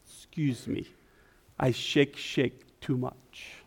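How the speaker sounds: put-on halting Italian accent, slow; lightly voiced Italian preacher. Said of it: "in his Italian accent".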